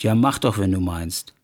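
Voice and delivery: cool, indifferent reply dropping away; unmoved. Acted. Wife answering husband's threat on phone, coldly indifferent. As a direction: brush off the threat, falling low at the end. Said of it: "Aber Verona ließ das kalt".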